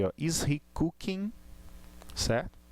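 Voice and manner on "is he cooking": slow "cooking" with the -ing left open and high; higher-pitched question, "cooking" ending open. Shown as a demonstration. Teacher demonstrating intonation to the class, open -ing. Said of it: "ele fica aberto nessa expressão".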